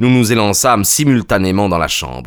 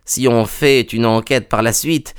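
lightly voiced servant woman, pitched up; a higher, restrained character voice; Madame Toller, coopérative; 5 semitones higher than usual. (domestique, voix un peu plus aiguë)

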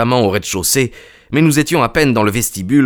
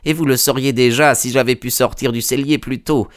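lightly voiced servant woman, pitched up; a higher, restrained character voice; Madame Toller, coopérative; 5 semitones higher than usual. (domestique, voix un peu plus aiguë)

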